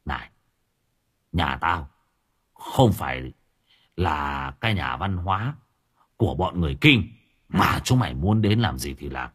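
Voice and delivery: low, threatening growl; menacing thug. Acted. Dũng menaces the crowd. (Dũng trầm giọng đe dọa)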